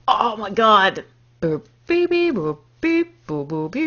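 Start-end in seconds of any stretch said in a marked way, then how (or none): 1.4-3.9 beep-boop thinking noises; toy robot voice. Pretend. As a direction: hum like a little robot.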